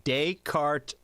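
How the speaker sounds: Descartes said slowly, day-CART, each syllable clear; careful pronunciation. Shown as a demonstration. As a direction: slowly spell out Descartes aloud. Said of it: "This is pronounced Descartes".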